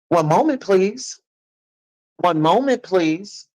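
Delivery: sweet customer-service voice, dripping sarcasm; mock polite. Sweet fake politeness to viewers.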